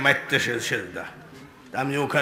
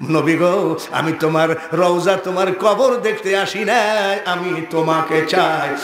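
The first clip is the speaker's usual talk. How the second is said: calling plea. Acted. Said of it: "ডাক দিয়ে কয়".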